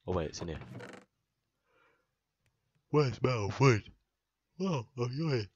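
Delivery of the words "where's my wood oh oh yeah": loud, high put-on outcry; mock wailing call. Player hunting for his missing wood, mock wailing call. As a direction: call out loudly for something mislaid.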